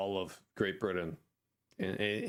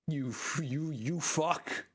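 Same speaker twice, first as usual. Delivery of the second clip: mock outrage; 4 semitones higher, slower than usual. Mock outrage at a suspected traitor.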